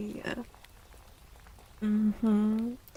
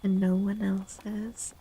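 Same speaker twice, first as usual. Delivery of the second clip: ASMR whisper. Acted. Streamer gently advising chat in an ASMR whisper. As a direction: whisper it close to the mic, unhurried.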